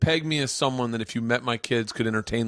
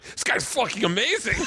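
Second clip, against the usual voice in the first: mock impressed fan; 10 semitones higher than usual. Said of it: "They're like".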